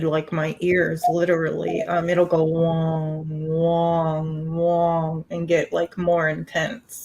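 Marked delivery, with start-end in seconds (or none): 2.4-5.2 imitated ringing. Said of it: "that wonging sound".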